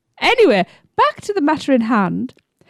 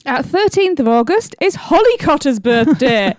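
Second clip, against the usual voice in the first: short of breath after a long list; reading while running out of air. Real, not acted. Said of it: "I'm running out of breath and air here".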